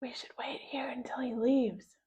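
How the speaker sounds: hushed breathy whisper. A narrator's reading. Harold hides in the gym, whispering to George. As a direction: whisper so no one hears. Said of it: "whispered Harold".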